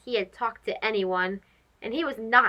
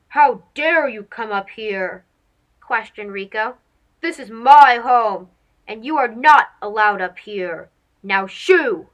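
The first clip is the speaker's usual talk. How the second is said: cranky monkey; 5 dB louder than usual. Acted. Cranky monkey scolds mouse.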